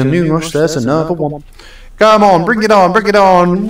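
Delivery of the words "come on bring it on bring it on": hyped challenge. Real, not acted. Challenging the game.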